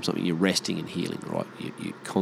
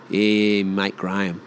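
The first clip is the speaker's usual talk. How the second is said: broad Australian mate-speak; casual Australian accent; broad Aussie; slower than usual. Acted. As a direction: say it like an Aussie bloke. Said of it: "Aussies just say Graham".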